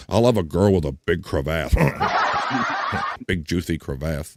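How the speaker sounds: low voice, giggling through the chat line; laughing while reading. Real, not acted. Reading a crude chat comment laughing.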